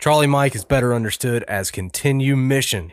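energetic host announcing the show; podcast intro read. Acted. Host welcomes listeners to The Breach podcast, upbeat intro read. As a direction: welcome listeners with punchy, projected delivery.

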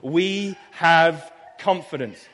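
"have" slowed and pressed; stress on have. Shown as a demonstration. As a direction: lean on "have" slowly. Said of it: "What is he saying right there?".

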